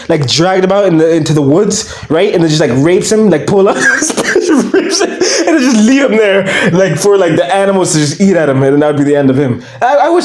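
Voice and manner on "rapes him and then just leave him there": laughing through the words; cracking up mid-sentence. Real, not acted. Vlogger laughing at his own joke, laughing.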